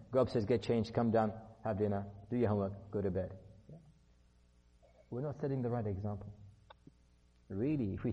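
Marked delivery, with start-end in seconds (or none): 0.1-3.3 brisk, low-pitched list of routine orders; brisk parental orders. Acted. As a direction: rattle off the evening routine to a child. Routine orders to child, first version.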